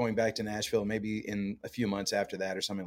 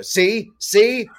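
"See, see" squeaked much higher and louder; a gleeful told-you-so, pitched way up; mock triumphant wife; 11 semitones higher, 11 dB louder than usual. Wife catching husband's Canadian vowel, high gleeful gotcha. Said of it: "snap her finger and go".

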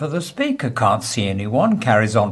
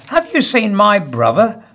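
lightly voiced penguin; 9 semitones higher than usual. Penguin's question in joke.

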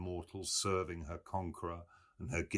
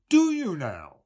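high, loud, puzzled query; mock puzzled; 11 semitones higher, 12 dB louder than usual. A narrator's reading. Mulligan pressing Stephen in the same puzzled tone. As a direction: echo with exaggerated learned puzzlement. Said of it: "said in the same tone".

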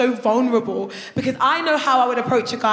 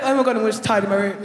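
mock flustered guy; 5 semitones lower, faster than usual. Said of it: "he runs upstairs like".

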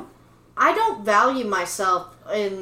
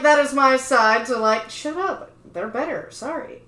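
mock rant; 4 semitones higher, 5 dB louder than usual. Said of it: "I'm like".

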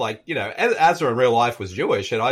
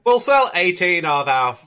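mock Irish accent; 3 semitones lower than usual. Co-host as parents selling kids, mock Irish accent. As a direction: put on an Irish emigrant's brogue.

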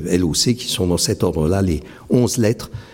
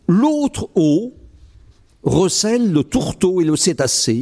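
higher, lifted poetry reading; poem recital; 7 semitones higher than usual. Acted. Poet reading his Oulipo poem to the audience, declaiming. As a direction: recite it as a performance, savouring sounds.

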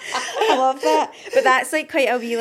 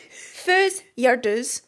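Doric accent; 3 dB louder, much slower than usual. Shown as a demonstration. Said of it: "Say that again".

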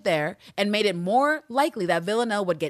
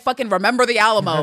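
louder, hammy rallying cry; mock dramatic warning; 8 dB louder than usual. Constantine warning Eve about Anna, hammed-up loud warning. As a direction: play it as a mock war cry. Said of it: "He's like".

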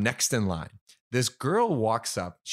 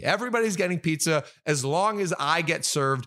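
excited offer; 4 semitones higher than usual. Retold or imitated. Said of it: "I'm like".

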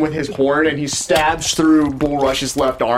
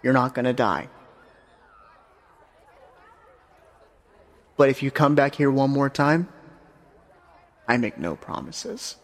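stern Death; 5 dB quieter than usual. Acted. Death warns the hero.

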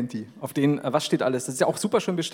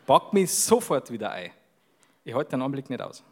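Bavarian dialect; 4 semitones lower than usual. Shown as a demonstration. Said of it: "Kannst du den e-, ersten Teil".

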